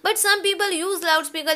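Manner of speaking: very slow, each word spaced out; slow, deliberate dictating voice; slow dictation. Shown as a demonstration. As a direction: dictate it for the class to write down. Dictating letter line.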